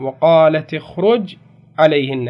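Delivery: وقالت with the taa given a kasra, slow and clear; slow teaching read of وقالتِ اخرج. Shown as a demonstration. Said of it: "شوفوا بكسر التاء".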